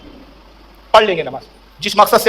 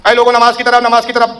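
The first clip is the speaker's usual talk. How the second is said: calling out. Retold or imitated. Prayer society's leader calls people to prayer, imitated calling out. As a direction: stretch the words like summoning people to prayer. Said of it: "آواز لگاتے چلے".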